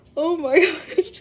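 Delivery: voice with a stifled laugh leaking through. Retelling how the cop reacted while trying not to laugh: imitating someone stifling a laugh. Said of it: "the cop is trying not to laugh".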